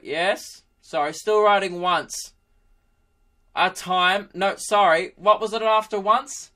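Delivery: put-on slow start, rising old man voice; muddled old-timer losing his place; old pensioner. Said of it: "this old pensioner Mac dude dictating".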